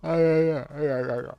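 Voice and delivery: loud, high yeah yeah cheer; excited cheer. Real, not acted. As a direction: celebrate the win out loud. Cheering a good craft.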